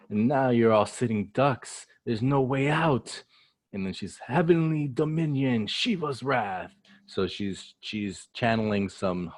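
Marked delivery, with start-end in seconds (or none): 0.1-3.2 high mock-menacing villain voice; gloating villain. Recapper as Big Mom cornering her foes, gloating. 4.3-6.7 high, dramatic villain proclamation; attack announcement. Acted. Recapper as Big Mom unleashing lightning, hammed-up proclamation.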